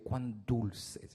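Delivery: "cuán dulces" susurrado con ternura, más bajo; "cuán dulces" como una caricia; tierno y suave. Shown as a demonstration. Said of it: "hasta la expresión cómo cambió". ("cuán dulces" dicho suave y con dulzura)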